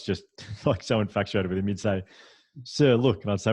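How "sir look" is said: high, loud call to get sir's attention; boy eagerly points something out to his teacher. Retold or imitated. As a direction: call out like an excited schoolboy. Boy calling teacher over.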